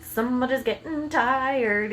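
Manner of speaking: slow, drawn-out teasing; slow parental teasing. Retold or imitated. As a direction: tease a sleepy child, stretching the words. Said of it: "and I'm like".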